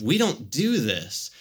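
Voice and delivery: acting out shocked refusal, drawn out; slow, swooping words of mock disbelief. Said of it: "it's this shock of".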